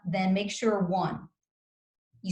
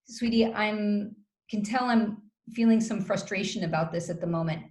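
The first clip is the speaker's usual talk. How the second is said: calm and gentle; 2 semitones lower than usual. Shown as a demonstration. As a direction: coach showing a calm time-out line to partner, calm and gentle.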